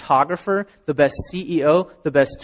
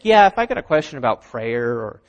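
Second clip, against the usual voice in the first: mock skeptic. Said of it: "we think".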